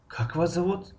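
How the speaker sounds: high-pitched question leaning on Как; stress on the first word. Shown as a demonstration. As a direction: start high on a long Как. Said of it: "аввали ҷумларо мо баланд талаффуз".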